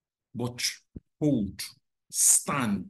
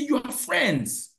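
stretched-out reminder; 11 semitones higher, much slower than usual. Retold or imitated. Retold gentle reproof to child.

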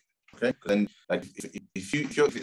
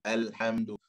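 slow recitation; slower than usual. Shown as a demonstration. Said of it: "So when you slow it down".

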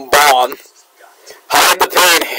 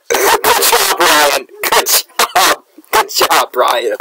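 laughing; much slower than usual. Real, not acted. Laughing praise after a kill.

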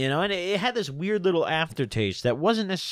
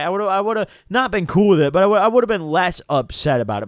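louder; 2 semitones higher, 6 dB louder than usual. Real, not acted. Venting anger at the lie.

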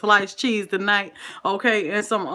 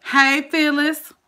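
drawn-out greeting; 6 semitones higher, 4 dB louder, slower than usual. Real, not acted. Greeting a viewer on live stream.

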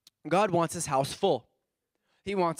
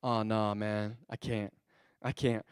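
mock excuse; 8 semitones lower, 6 dB quieter than usual. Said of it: "they're like".

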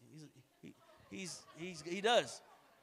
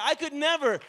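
bold cry; 6 semitones higher, 10 dB louder than usual. Retold or imitated. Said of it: "He said".

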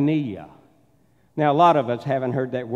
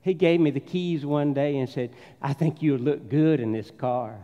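put-on southern accent. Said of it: "get my southern accent back out".

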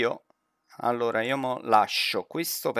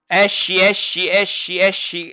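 urgent; 4 semitones higher, 5 dB louder than usual. Real, not acted. Urging teammate out of danger.

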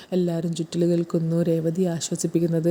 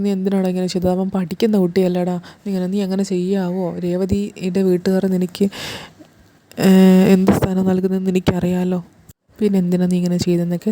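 retold scolding, getting louder; a hint of a stern father, louder at the peak; 5 dB louder than usual. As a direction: rebuke the son like a stern father. Father scolding son over deed.

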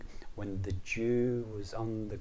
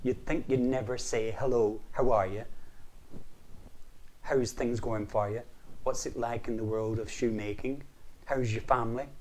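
higher, louder fed-up rant; exasperated leprechaun; 3 semitones higher, 5 dB louder than usual. Acted. Leprechaun complains to Patrick, higher and louder. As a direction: scold him for always asking about gold. Leprechaun mocks big people's greed.

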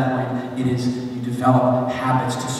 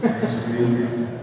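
jokingly bad movie-boxer impression; badly faked Italian-American accent; Sylvester Stallone. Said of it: "really bad Italian accent".

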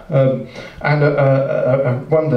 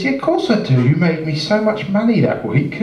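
higher-pitched, lightly acted delight; enthusiastic recognition; 5 semitones higher than usual. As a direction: greet an old customer with mild excitement. Delighted landlord recognises the ghostly rabbit.

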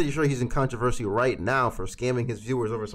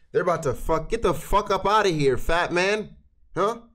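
rising, louder angry rant; heated rant; 6 semitones higher, 4 dB louder than usual. Real, not acted. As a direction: build into a loud scolding. Reactor mocks crying rich YouTuber.

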